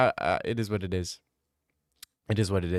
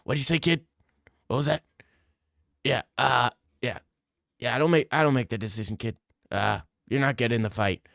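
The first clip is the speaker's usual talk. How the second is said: Dana White impression; faster than usual. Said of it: "sounds exactly like Dana White".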